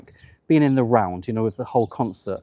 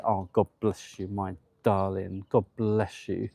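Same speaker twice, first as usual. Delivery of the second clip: tender blessing; 3 semitones lower, 5 dB quieter than usual. Real, not acted. Tender wish to a crying viewer.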